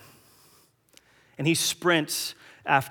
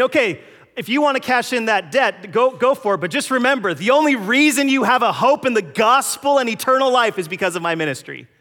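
voicing Paul; 10 semitones higher, 9 dB louder than usual. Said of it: "So Paul's saying".

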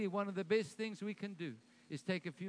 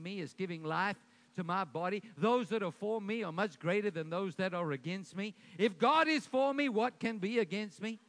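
faith declaration. Shown as a demonstration. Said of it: "your declaration should be".

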